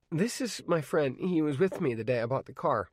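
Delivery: lightly voiced eager boy; Arnie, polite teen. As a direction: introduce a friend politely. Arnie introduces his friend.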